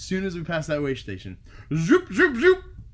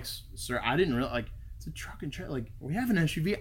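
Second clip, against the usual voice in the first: soft, quick, earnest plea to an officer; most honest voice; 7 dB quieter, faster than usual. Retold or imitated. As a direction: plead innocence softly and fast. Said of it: "in my most honest voice".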